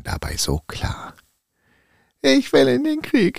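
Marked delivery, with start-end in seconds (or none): 2.2-3.4 high, eager tin soldier cry; toy soldier shouting. Acted. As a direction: call out to go to war. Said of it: "rief der Zinnsoldat so laut, wie er nur konnte".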